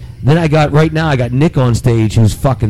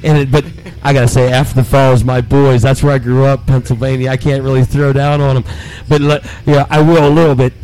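playful trash-talking wrestler promo; wrestling promo. Pretend. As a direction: talk smack like a wrestler on the mic. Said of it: "cut a promo on these Pennsylvania interlopers".

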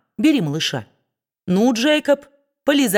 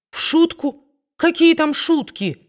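much higher, surprised echo; incredulous exclamation; 9 semitones higher than usual. A narrator's reading. Kit echoing his mother in disbelief, much higher. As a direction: throw the word back in disbelief. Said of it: "воскликнул Кит".

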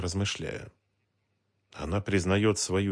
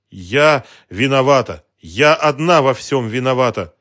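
resolute declaration; 6 semitones higher, 12 dB louder than usual. A narrator's reading. Woman confessing to the detective, loud resolute outcry. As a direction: declare your guilt with force. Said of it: "решительно заявила".

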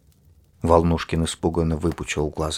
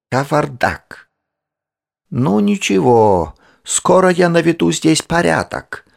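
put-on fussy old lady; 10 semitones higher, 6 dB louder than usual. A narrator's reading. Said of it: "сказала Филофея себе под нос".

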